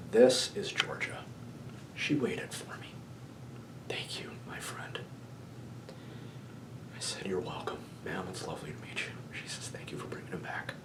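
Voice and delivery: soft, hushed and moved; misty-eyed. Real, not acted. Storyteller recalling the ghost's thanks, real misty-eyed softness. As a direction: tell it softly, close to happy tears. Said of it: "I'm getting a little misty-eyed here".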